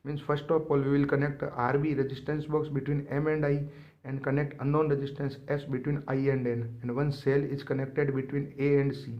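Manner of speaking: very slow, word-by-word dictation of the notes; dictating notes. Acted. Teacher reading English notes aloud to students, slow dictation. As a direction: spell it out slowly so students can write it down.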